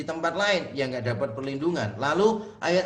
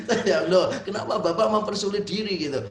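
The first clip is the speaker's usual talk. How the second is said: laughing; 3 semitones higher, 4 dB louder, faster than usual. Real, not acted. Laughing while retelling.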